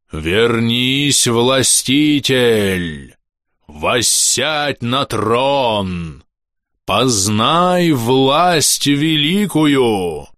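very slow, drawn-out eerie howl; the throne's voice howling after its lost prey. Acted. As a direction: call him back like a luring curse. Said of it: "Взвыл голос".

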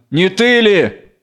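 a touch of threat, drawn out; menacing. Acted. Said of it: "Грозно". (грозный вопрос, протяжно)

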